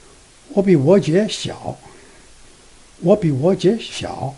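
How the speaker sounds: connect "我比我姐", then a tiny break before "小"; "我比我姐小" with second-tone changes and a slight pause before 小. Shown as a demonstration. Teacher repeating the line, "我比我姐" joined, tiny pause before 小. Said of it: "There's a tiny little bit pause".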